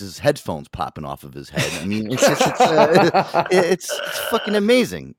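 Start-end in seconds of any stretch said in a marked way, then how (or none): 1.8-5.1 higher, louder, laughing through it; laughing praise. Real, not acted. Praising Aaron's skull, laughing and louder. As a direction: gush while cracking up.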